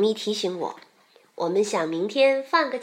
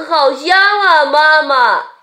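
high, loud, eager cub voice; little bear; 4 semitones higher, 10 dB louder than usual. A narrator's reading. Little bear answers mother about dinner, calling eagerly. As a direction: call back to mother delightedly. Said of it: "小熊说".

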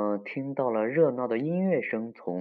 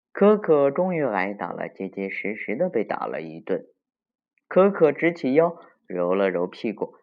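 put-on story reading to children; 5 dB louder than usual. A narrator's reading. Telling children of Mr. Beaver's spanking, lively storytelling. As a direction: tell it vividly to the little ones.

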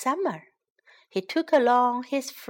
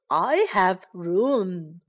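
dinosaur voice; 4 semitones lower, much slower than usual. Acted. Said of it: "said the dinosaur".

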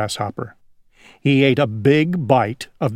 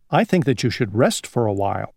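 low, quick grasshopper; 4 semitones lower, faster than usual. Acted. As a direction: lower and faster, a calm grasshopper. Grasshopper advises the housefly.

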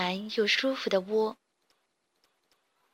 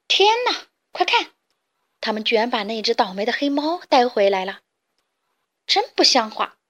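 indignant chick shouting; 3 dB louder than usual. Acted. Chicks outraged the cat was brought back, shouting. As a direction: cry out in disgust at the cat. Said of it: "其他小鸡们喊着".

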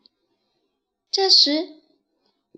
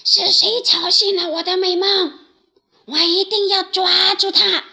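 higher and much louder, a furious lion's roar; 7 semitones higher, 8 dB louder than usual. Acted. Lion woken from his nap roars at whoever disturbed him. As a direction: bellow it like an angry woken lion. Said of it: "大声吼道".

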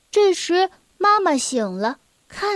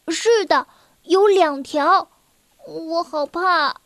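slow, drawn-out timid admission; mildly fearful, stretching the words; scared child. Acted. Scared child answers mother. (孩子害怕地拖长声音)

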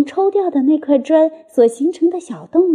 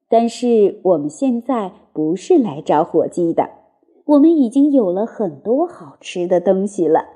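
father fox; 5 semitones lower than usual. Acted. Mr Fox explains to cub.

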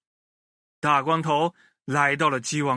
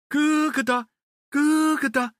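high clucking hen call; 10 semitones higher than usual. Acted. Hens heard clucking from the coop, high cackle.

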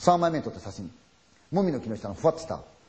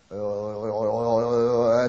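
slow, drawn-out eerie call; approaching ghostly call; 3 semitones lower, slower than usual. Retold or imitated. Storyteller imitating the ghost voice coming closer, slow eerie call. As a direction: draw the call out as it comes nearer. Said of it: "って言われたんですよ".

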